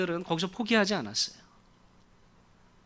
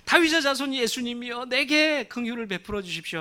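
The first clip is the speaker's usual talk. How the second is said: raised, high plea; crying out again; 5 semitones higher than usual. Acted. Beggar cries out to Jesus again despite the crowd. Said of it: "다시 한번 또 고래고래 소리를 지릅니다".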